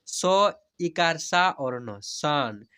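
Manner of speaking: very slow teacher's demo, long stretched vowels; slow spelling-out. Shown as a demonstration. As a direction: spell each letter slowly, then draw out the whole word. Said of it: "जैसे मैं हिजे करा कर पढ़ रहा हूँ". (धीरे-धीरे हिज्जे करके, स्वर खींचकर)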